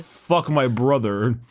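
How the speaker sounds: hammed-up elf, drawn out slowly; slow parody of an Eldar voice; mock elf voice. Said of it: "At least it's not an elf one".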